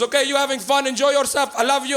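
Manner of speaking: put-on Portuguese dad accent. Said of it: "He goes".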